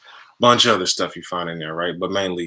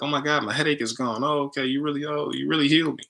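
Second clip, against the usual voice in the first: put-on amazed girlfriend; 7 semitones higher than usual. Girlfriend headache gone.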